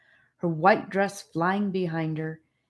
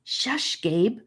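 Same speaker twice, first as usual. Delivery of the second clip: scolding; 7 semitones higher than usual. A narrator's reading. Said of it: "Annika glared at him".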